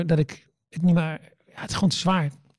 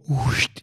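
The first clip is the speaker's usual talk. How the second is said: nagebootste woesj; 6 semitones lower than usual. Retold or imitated. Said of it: "voelde ik zo".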